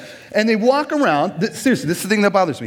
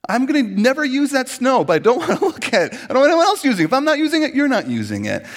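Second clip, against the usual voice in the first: mock petty anger; 7 semitones higher, faster than usual. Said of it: "and you might get angry. You're like".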